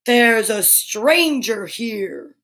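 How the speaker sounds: slow, drawn-out beast announcing a stranger; mildly booming beast, very slow. Acted. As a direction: let the monster's voice roll out slowly. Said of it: "That's my booming voice".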